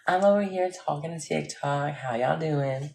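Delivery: quick playful Southern American accent on request. Shown as a demonstration. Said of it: "do the Southern accent".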